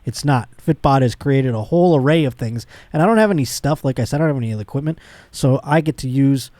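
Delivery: upbeat podcast ad read. Acted. Host reading a sponsor spot to listeners, upbeat ad read.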